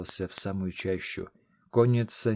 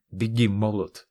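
lightly growled urgent order; a hint of a growl, pushing him to run; mild growl; 4 dB louder than usual. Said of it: "прорычал знакомый голос".

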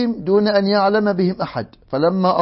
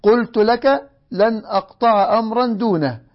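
a mild touch of sharpness, a little higher; sharply; 4 semitones higher than usual. Acted. The old man answers his son's challenge, mildly sharp. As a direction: snap back lightly, not shouting. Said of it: "فقال الشيخ في حدة".

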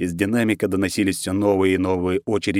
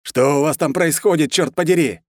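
high, loud demand on the radio; furious, hysterical; 7 semitones higher, 4 dB louder than usual. A narrator's reading. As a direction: rage bordering on hysteria. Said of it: "между яростью и истерикой".

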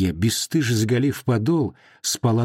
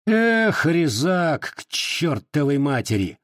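досадливый окрик; 5 semitones higher, slower than usual. Acted. Вахмистр отпихивает неумелого.

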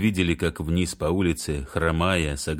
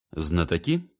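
heartfelt. A narrator's reading. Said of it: "проникновенно поведал ключник".

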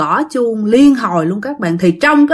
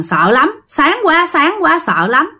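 higher-pitched mock cry of distress; lightly acted panicked complaint; retold frightened wail; 5 semitones higher, slower than usual. Possessed uncle holds his head, mildly wailing. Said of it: "chú Út vẫn ôm đầu mà la làng".

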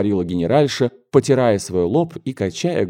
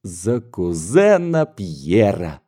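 triumphant; much slower than usual. Acted. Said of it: "с торжествующим видом произнесла дочь".

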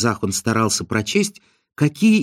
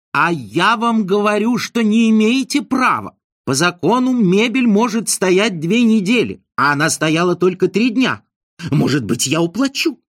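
high, urgent begging; high flustered insistence; agitated pleading; 7 semitones higher than usual. A narrator's reading. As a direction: chase him, pleading. Izn chases, pleading excitedly.

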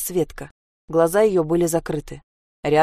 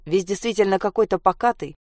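ordinary delivery

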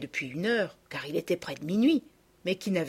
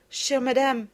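put-on pleading girl; 7 semitones higher, 4 dB louder, slower than usual. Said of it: "dit Sophie".

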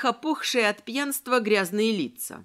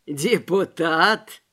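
mocking tramp; 4 semitones lower, 5 dB louder, much slower than usual. A narrator's reading. Tramp mocks the deputy.

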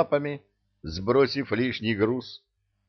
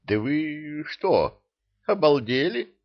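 slightly taken aback; 7 semitones higher than usual. Acted. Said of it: "слегка растерялся".

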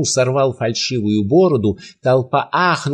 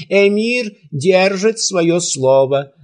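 slow, higher proclamation; shouting; 6 semitones higher, slower than usual. A narrator's reading. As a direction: announce it slowly to the crowd. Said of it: "закричал Бахтияр". (медленно и выше, как объявление)

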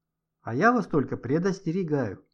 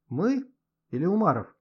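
smirking; 5 semitones higher, 3 dB louder than usual. A narrator's reading. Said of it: "усмехнулась Ксюша".

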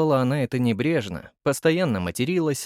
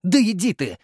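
higher, dismissive; brushing off; 7 semitones higher, 4 dB louder than usual. A narrator's reading. Nurse brushes off her teasing friend. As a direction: wave her off. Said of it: "отмахнулась толстуха".

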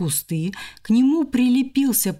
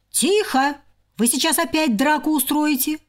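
higher stern hush; hushing hamster; 6 semitones higher than usual. Acted. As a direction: hush the sisters.

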